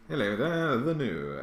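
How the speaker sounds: hammed-up posh English accent; mock plummy English accent, laughing; dreadfully English. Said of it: "dreadfully English".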